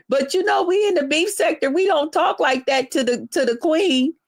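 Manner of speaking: sneering impression of a beef-sector member; mocking whiny rival. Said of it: "coming at me talking about".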